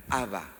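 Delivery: Abba said slowly as AH-ba, long open a; Abba pronounced. Shown as a demonstration. Pastor teaching the congregation the word, careful pronunciation. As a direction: say Abba clearly, stress on the first syllable. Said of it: "Así se pronuncia".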